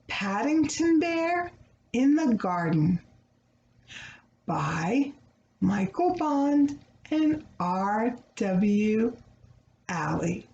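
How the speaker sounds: title read out grandly with long pauses. Acted. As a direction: announce the book to children. Reads the book title.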